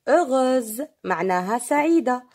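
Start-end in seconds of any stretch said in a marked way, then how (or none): 0.1-0.9 "heureuse" said distinctly, final z sustained; repeated model word. Shown as a demonstration. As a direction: repeat "heureuse" clearly for learners, ending held. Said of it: "je répète". (« heureuse » répété distinctement, z final tenu)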